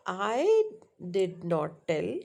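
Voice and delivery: falling statement tune on "I did not tell"; statement intonation. Shown as a demonstration. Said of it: "that's a different tone, but, uh, statement".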